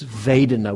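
Vedana said with a clear V sound; pronounced with V. Shown as a demonstration. Teacher giving the Pali word for feeling, Vedana with a V. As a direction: begin Vedana on a buzzing V. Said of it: "with a V".

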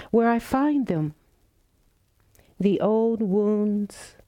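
slow, measured poetry reading with lingering pauses; poem reading. Acted. Meditation teacher opens the evening's practice with a poem, reflective poem reading. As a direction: read it as verse, phrase by phrase, words drawn out.

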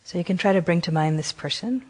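gentle meditation guidance with long pauses; guided meditation. Acted. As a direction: guide them unhurriedly, leaving long silences between phrases. Leads a guided compassion meditation.

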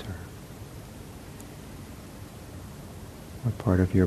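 unhurried meditation guidance with long pauses; guided meditation. Real, not acted. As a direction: guide them gently into the body, leaving space. Leads a seated meditation.

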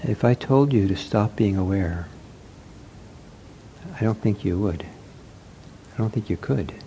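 unhurried meditation guidance with long pauses; guided meditation. Acted. Teacher to seated meditators as they settle, guided meditation. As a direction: gently guide sitters, leaving long silences.

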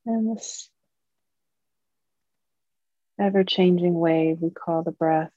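calm, measured meditation guiding, long pauses between phrases; guided meditation. Acted. Teacher leading Dharma friends into mindfulness practice, calm guided meditation. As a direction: guide a group gently, leaving long silences.

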